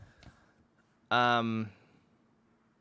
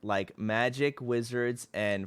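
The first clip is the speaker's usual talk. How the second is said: poem reading. Shown as a demonstration. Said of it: "Let me read".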